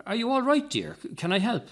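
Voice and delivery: put-on a light touch of an old gent's concern; kindly asking. A narrator's reading. Elderly gent kindly offering the upset woman help. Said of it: "asking her kindly".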